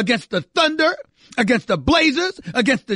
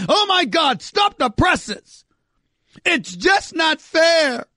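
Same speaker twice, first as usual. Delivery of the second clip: mock whining panic; slower than usual. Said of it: "Everybody's in panic mode".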